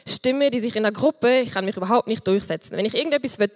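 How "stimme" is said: piping little voice. Shown as a demonstration. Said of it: "so eine piepsige, leislige Stimme".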